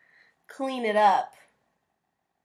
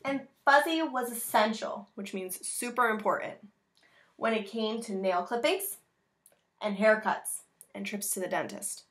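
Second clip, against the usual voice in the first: put-on reading to children. Reads picture book aloud.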